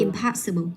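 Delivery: impossible with POS stressed, ending falling; stress on second syllable. Shown as a demonstration. Teacher modelling for a student, impossible stressed on POS. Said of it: "Đó là pos".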